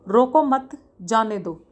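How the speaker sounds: रोको मत joined, brief break, then जाने दो; group रोको मत together, split off जाने दो; pause after मत. Shown as a demonstration. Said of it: "अल्पविराम चिन्ह यूज़ करके ही". (मत के बाद रुककर जाने दो)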